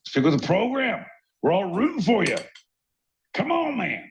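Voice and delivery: high-pitched, strained pep talk; pleading encouragement. Acted. Cohost urging his faltering buddy on, high pleading encouragement.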